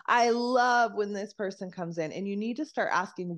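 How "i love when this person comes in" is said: louder and brighter, lifted; light up at the thought of this client; lit up. Shown as a demonstration. Coach showing the client she loves, lit up. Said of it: "watch the parts".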